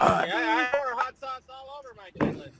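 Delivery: Joe Biden impression. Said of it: "do the voice again".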